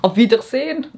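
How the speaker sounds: "Auf Wiedersehen" with a French lilt, rising at the end; French accent on "Auf Wiedersehen", rising; French-accented German. Shown as a demonstration. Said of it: "French accent when I say a German word".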